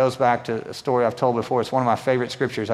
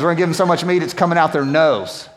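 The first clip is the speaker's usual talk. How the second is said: corrected line, bolder; 3 semitones higher than usual. Shown as a demonstration. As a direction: restate the real verse with more punch. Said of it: "it says nostrils, actually".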